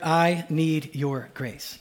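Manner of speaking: very slow, leading the phrase word by word; slow demonstration. Shown as a demonstration. Preacher leading the congregation, saying the phrase slowly. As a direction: model the line for them to repeat. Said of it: "I just want us to say together".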